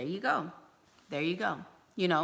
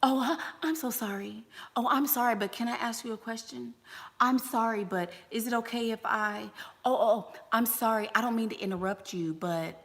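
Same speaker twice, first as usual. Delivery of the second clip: imitating a timid apologizer; 3 semitones higher, 4 dB quieter than usual. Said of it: "So many women say".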